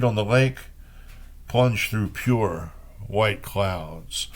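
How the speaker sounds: measured, unhurried poetry recital; reading old Chinese poems in translation. Acted. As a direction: let each image land, like reading verse aloud. Reads Wang Wei poems.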